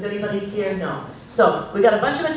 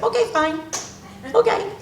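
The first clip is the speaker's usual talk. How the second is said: mock resigned okay; 7 semitones higher, 3 dB quieter, faster than usual. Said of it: "It's like".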